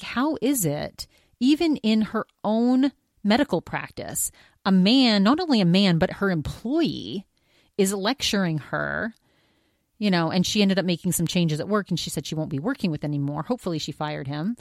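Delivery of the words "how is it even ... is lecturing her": pitched up, outraged and incredulous; indignant disbelief. Retold or imitated. Doctor outraged her own employee lectures her, higher indignant disbelief. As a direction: voice the doctor's stunned indignation, climbing high. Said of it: "she's just like".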